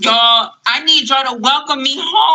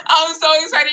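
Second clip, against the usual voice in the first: excited, a little higher than usual; 4 semitones higher than usual. Real, not acted. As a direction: say it with contained excitement, no squeal. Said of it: "I'm excited".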